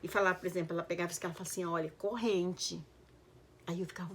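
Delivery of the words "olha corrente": teaching a word. Retold or imitated. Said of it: "começou a me ensinar".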